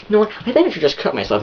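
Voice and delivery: high, fast mock girlfriend voice; upset girlfriend impression. Girlfriend testing inattentive boyfriend, mock distraught.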